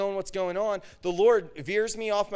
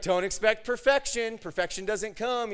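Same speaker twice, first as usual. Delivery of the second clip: raised, upbeat pep talk; encouraging; 4 semitones higher than usual. Retold or imitated. God reassures a preacher after a flop, encouraging. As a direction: voice the Lord cheering you on. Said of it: "He just started encouraging me".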